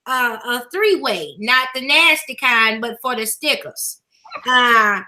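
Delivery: church mother giving out announcements; lightly put-on church mother, unhurried and folksy; good mother voice. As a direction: read the notices like a church mother addressing her babies. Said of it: "put on my good mother voice".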